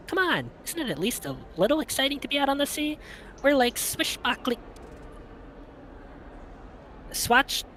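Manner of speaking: giddy, high-pitched and quick; excited high voice. Acted. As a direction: gush about going out to sea. Saturday excited about the ferry.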